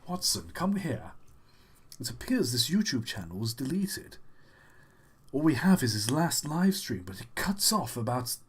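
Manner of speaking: lightly voiced detective musing over a case; a hint of a pondering sleuth; Sherlock Holmes. Detective consults his partner about a deleted channel, lightly voiced sleuth. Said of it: "Sherlock Holmes can't solve the mystery".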